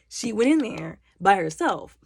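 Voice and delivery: loud, slow imitated protest; slow, emphatic mock exasperation; exasperated insisting. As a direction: spell it out to someone not listening. Mother insists to dismissive warden.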